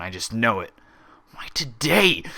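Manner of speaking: whispered, rising to a frantic whispered plea; fretful whisper. A narrator's reading. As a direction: hiss it to yourself in dread. Orderly frets, dreading punishment.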